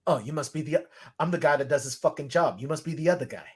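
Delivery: lightly put-on Boston accent; Boston-accented movie line. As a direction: quote it like a Boston local. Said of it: "with a Boston accent".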